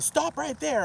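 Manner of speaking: high-pitched mock holler; imitated holler. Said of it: "start hollering at the top of their lungs".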